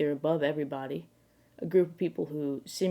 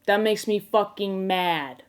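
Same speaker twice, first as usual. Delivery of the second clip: mock anger; 2 semitones higher, slower than usual. Translates aggro in mock anger.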